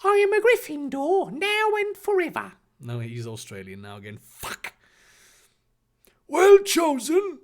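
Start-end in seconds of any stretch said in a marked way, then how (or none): 0.0-2.5 high, bold proclamation; Harry, bold and brave. A narrator's reading. Harry declaring his house, high bold proclamation. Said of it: "Harry declared boldly and bravely". 6.3-7.4 high, slow approving declaration. A narrator's reading. Headmaster praising the boy's choice, slow high approval. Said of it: "Dumbledore declared approvingly".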